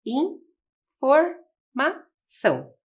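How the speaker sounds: informação drawn out very slowly as one word; slow whole word. Shown as a demonstration. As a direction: stretch informação out for young learners. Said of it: "ficamos com a palavra".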